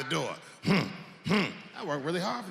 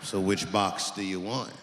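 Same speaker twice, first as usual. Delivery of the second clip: low gun clerk voice; 9 semitones lower than usual. Retold or imitated.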